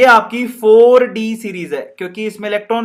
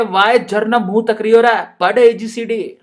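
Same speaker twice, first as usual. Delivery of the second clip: Rajasthani madam. Acted. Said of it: "madam कह रही है".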